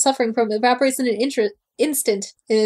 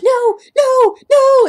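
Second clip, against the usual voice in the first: much higher, louder mocking no; mock panic; 13 semitones higher, 7 dB louder, much slower than usual. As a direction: parody a frantic wail.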